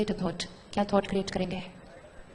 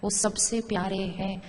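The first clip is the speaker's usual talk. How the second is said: calm affirmation; slower than usual. Shown as a demonstration. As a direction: say it slowly as a gentle blessing. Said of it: "अब मैंने एक एक thought create करना".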